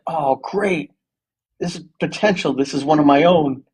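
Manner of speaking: giddy. Retold or imitated. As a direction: act out pleased recognition of one of your own. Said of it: "you get giddy".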